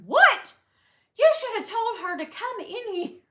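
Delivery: high, loud shocked "What?"; indignant surprise. Retold or imitated. Customer shocked the vlogger was left outside, high and loud.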